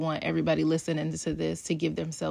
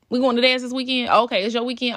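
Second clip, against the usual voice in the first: put-on excited kids voice; 5 semitones higher, 5 dB louder than usual.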